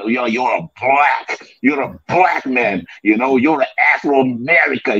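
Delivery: lightly voiced jab at American talk; mocking American emphasis. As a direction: lean hard on the labels, mocking. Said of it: "how these Americans like to put that emphasis on it".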